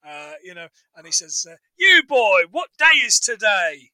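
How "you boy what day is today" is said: calling out. Retold or imitated. Voicing Scrooge calling boy.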